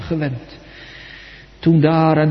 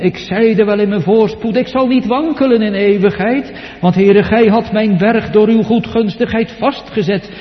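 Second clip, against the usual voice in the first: high, loud, self-assured declaration; loud, higher proud voice of David; proud boast; 7 semitones higher, 5 dB louder than usual. Acted. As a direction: preach David's pride ringing out. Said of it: "David in zijn hoogmoed".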